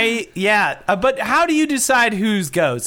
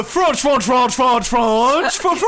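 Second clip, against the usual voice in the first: fake French; 3 semitones higher, slower than usual. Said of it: "what fake language you're supposed to be doing".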